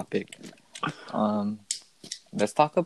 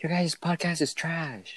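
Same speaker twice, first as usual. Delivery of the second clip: mocking troll comment; 7 semitones higher, slower than usual. Imitating a rude live chatter.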